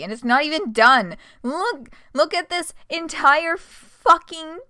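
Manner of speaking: loud slow groan of disbelief; exasperated. Real, not acted. Streamer seeing the endless page, loud exasperated complaint. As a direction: drag it out, fed up and loud.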